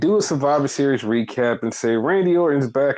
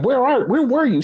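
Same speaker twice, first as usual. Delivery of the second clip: mock Io; 11 semitones higher than usual. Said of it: "Io was like".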